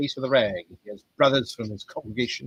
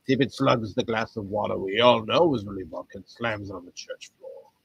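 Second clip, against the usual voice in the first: ordinary talk, nothing marked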